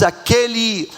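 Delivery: repeated dismissively, one stretched high then dropping; mock disdain. Preacher showing what the wife does not say, mock disdain. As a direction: toss it off as a put-down. Mimics scornful wife naming her husband.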